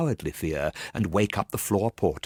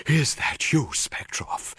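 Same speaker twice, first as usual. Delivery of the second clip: sepulchral voice; 7 semitones higher, slower than usual. Acted. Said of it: "he asked in a sepulchral voice".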